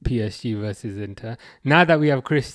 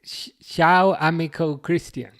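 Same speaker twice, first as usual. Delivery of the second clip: attempted Italian accent; 4 semitones higher, 4 dB louder, slower than usual. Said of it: "I was trying to do it with an accent".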